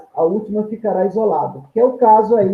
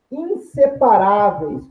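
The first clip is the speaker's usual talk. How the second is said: slow explaining; slower than usual. Shown as a demonstration. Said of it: "pois ficam na mesma sílaba".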